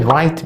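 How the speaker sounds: "رايت" with an s added after the t; Scouse final t. Shown as a demonstration. Teacher showing learners how Liverpool says it, "رايت" ending in ts. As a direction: end "رايت" on a hissed ts. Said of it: "وهما بيضيفوا اس بعد التي".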